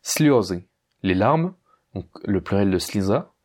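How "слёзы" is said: "Слёзы" stressed on the first syllable, слё. Shown as a demonstration. Teacher presenting the word for tears, stress on ё. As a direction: lean on ё in "Слёзы". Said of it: "a son accent tonique sur le yo".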